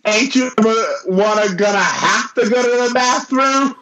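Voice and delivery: mock Brooklyn accent. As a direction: ham up a 1930s Brooklyn child accent. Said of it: "No one talks like this".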